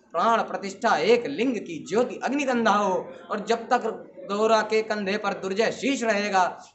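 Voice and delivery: declaimed oath of a proud general; stormy commander's vow. Acted. Commander Gora swearing to the queen to save Rana, stormy. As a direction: vow it forcefully, line upon line. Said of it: "शब्द शब्द मेवाड़ी सेनापति का था तूफानी".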